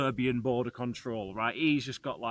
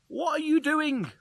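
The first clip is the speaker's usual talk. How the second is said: stern guard; 14 semitones higher, 5 dB louder than usual. Retold or imitated. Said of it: "And he's like".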